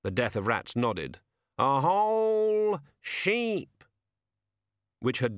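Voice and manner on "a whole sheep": high, loud, drawn-out delight; raven amazed. Acted. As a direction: raven awed at a feast.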